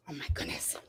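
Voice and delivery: whispered exasperated aside. Real, not acted. Host muttering to herself about the puppy, exasperated whisper. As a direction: breathe it out under the breath, fed up.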